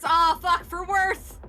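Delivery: dismayed exclamation. Real, not acted. Player reacts to bad luck.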